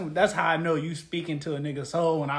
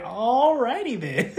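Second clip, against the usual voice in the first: Jim Carrey impression; 4 semitones higher, much slower than usual. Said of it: "Jim Carrey".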